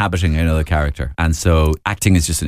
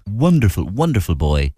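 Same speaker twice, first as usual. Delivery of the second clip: Portuguese accent. Shown as a demonstration. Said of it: "speak very clearly".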